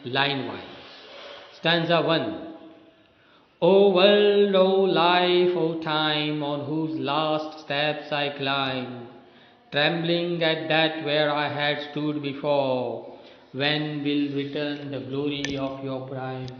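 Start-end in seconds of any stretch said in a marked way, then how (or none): 3.6-13.2 poem recitation. Acted. Teacher reciting Shelley's lament to the class, solemn poem reading. 13.5-16.5 poem recitation. Acted. Teacher reading the poem's question to students, subdued recitation.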